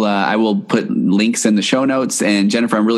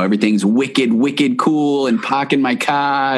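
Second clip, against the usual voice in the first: put-on Boston accent; 3 semitones higher, slower than usual. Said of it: "after a few days there".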